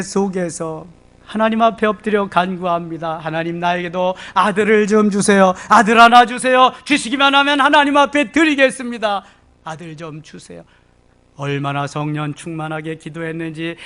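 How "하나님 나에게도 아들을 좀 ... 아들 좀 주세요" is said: rising, pleading prayer; Hannah's plea. Acted. Preacher voicing Hannah begging God for a son, pleading. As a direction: beg God for a son, getting louder.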